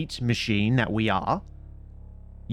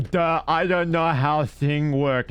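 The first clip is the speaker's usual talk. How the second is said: mock dumb voice; 3 semitones higher, 3 dB louder, slower than usual. Mocking dumb speech.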